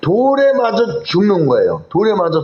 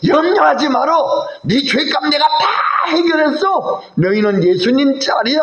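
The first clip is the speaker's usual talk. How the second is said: God reassuring; 7 semitones higher than usual. Retold or imitated. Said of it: "하나님이 우리를 받으시고".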